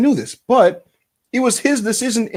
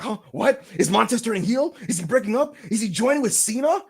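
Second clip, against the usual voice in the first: higher, puzzled string of questions; mock confusion; 4 semitones higher than usual. Imitated viewer guessing at the video's meaning, confused. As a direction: act out a baffled viewer. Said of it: "You're like".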